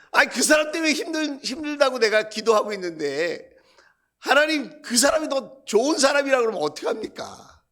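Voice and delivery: high, aggrieved protest; hammed-up exasperated appeal; pleading complaint. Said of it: "하나님 앞에 제가 하소연하는".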